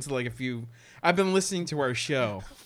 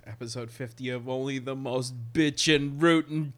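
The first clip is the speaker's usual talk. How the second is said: hyped announcer; 3 semitones higher, 7 dB louder than usual. Pretend. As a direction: pump up the show name. Hyped show intro.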